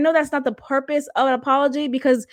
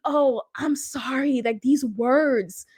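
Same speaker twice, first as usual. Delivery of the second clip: mock sarcastic. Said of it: "people think".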